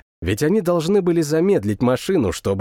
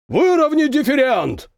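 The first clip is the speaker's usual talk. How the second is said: shouting over machinery; 12 semitones higher than usual. A narrator's reading. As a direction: bellow it over engine roar. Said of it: "проревел старпом, перекрикивая гул двигателей".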